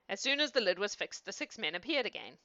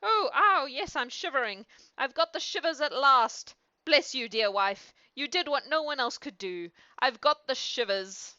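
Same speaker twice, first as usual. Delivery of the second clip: high, loud exultant shivering king; acted overjoyed exclamations; crying out; 6 semitones higher, 5 dB louder than usual. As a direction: cry out in shock turning to delight. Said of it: "he cried".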